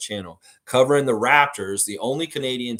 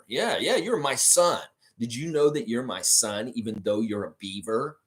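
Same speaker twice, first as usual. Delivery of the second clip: beaver puppet dad voice. Pretend. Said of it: "entertain you with the beaver puppet".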